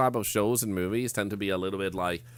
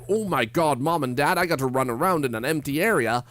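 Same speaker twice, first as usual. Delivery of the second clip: mock excited child; 5 semitones higher, 4 dB louder than usual. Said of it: "And I'm like".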